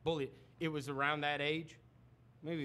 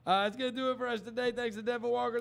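brisk host running through thanks and plugs; upbeat broadcast outro, drawing out the last words; radio sign-off; 2 semitones higher than usual. Real, not acted. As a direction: wrap up the show with announcer polish. Signs off the radio show.

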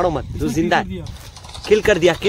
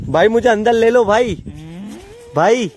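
higher-pitched plea to be let in; pleading; 5 semitones higher than usual. Pretend. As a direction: plead with friends to let you in. Shut outside, begging to come in.

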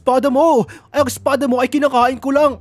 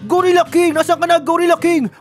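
calling out; 3 semitones higher than usual. Pretend. Player searching for the Gorilla King, calling out. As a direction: call the hidden foe out to fight. Calls out to hidden boss.

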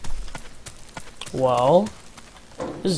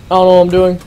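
panicking gamer; 6 dB louder, faster than usual. Real, not acted. Out of ammo, enemies attack.

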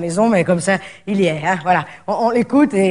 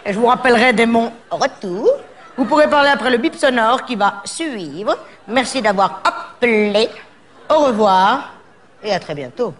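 giggly greeting; slower than usual. Acted.

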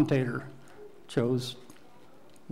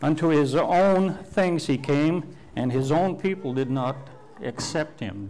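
scripture reading; 3 dB louder than usual. Acted. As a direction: read it out as holy words. Preacher reads scripture aloud.

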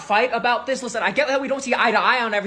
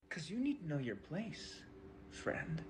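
very soft, low-pitched condescension; hushed, low, menacing disdain; cold put-down; 8 semitones lower, 20 dB quieter than usual. Acted. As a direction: put them in their place under your breath. Cold put-down ending the quarrel.

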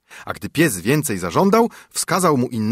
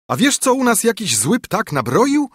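wife's voice; 11 semitones higher, 3 dB louder than usual. A narrator's reading. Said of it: "rzekła mu na to żona".

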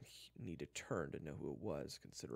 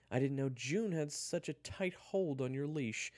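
high, loud jeering; mocking taunt; 11 semitones higher, 9 dB louder than usual. Eric taunts Kyler about obeying June, mocking. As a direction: taunt him with relish. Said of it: "Eric laughed".

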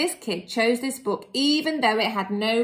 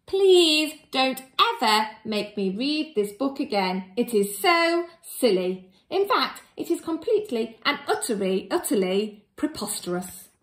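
mock exasperation; 3 semitones higher, 5 dB louder than usual. Reader pleads.

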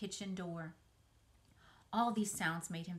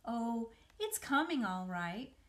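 lightly; 3 semitones higher, 4 dB louder than usual. Acted. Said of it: "she said lightly".

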